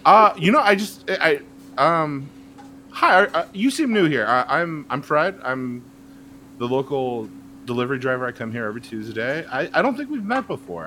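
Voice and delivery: nervous delivery driver. Acted. Nervous delivery driver meets newcomer.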